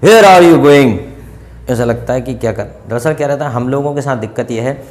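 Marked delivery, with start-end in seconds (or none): 0.0-1.0 loud harsh demand; mock angry interrogation; scolding. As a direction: snap the question like a scolding. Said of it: "डांट क्यों रहा है ऐसे".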